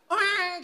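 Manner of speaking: a high wailing baby's cry, quickly mimicked; imitated baby cry. Preacher mimicking his baby's cry, high wail. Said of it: "dia cuma bisa nangis kan".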